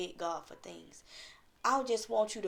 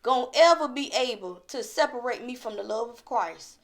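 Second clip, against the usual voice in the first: raised, emphatic sermon voice; fervent preaching; 5 semitones higher, 5 dB louder than usual. Real, not acted. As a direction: preach it with conviction, drawing out key words.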